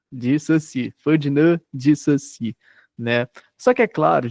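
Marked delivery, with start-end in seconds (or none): 0.1-2.6 "Ferdinand de Saussure" said slowly, each syllable clear, "Saussure" as "sossi"; careful name pronunciation. Shown as a demonstration. Teacher showing new students how to say the name, slow and careful. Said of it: "tem que aprender no começo é a pronúncia".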